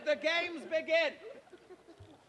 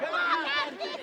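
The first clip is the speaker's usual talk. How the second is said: "Go, Mark Antony" cheered much higher, stress on MARK; high excited cheer; 11 semitones higher, 5 dB louder, faster than usual. Shown as a demonstration. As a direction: pitch the cheer way up. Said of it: "repeated cheer rehearsal".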